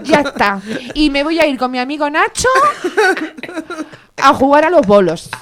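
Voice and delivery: Ayuso animada y mandona; imitando a Ayuso. Pretend. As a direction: presume como Ayuso en mitin. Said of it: "¿A que la imito bien?". (imitación de Ayuso)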